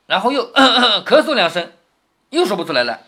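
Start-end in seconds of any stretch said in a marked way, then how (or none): 0.1-1.7 acted stalling coughs; mock throat-clearing. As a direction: clear your throat theatrically while telling it. (假装咳嗽清嗓)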